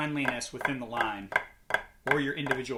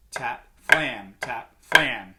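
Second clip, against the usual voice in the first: louder, evenly spaced words; calling in rhythm; 2 semitones lower, 6 dB louder, much slower than usual. Shown as a demonstration. Drum teacher showing a rudiment starting on the tap, in rhythm. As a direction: call each stroke as it is played. Demonstrating sticking order on the drum.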